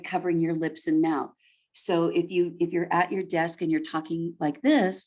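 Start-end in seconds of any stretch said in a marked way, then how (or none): 2.6-5.0 muffled behind hands; face in hands. Shown as a demonstration. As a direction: talk through hands over mouth. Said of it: "you see how, how different it sounds when I have my hands over my mouth".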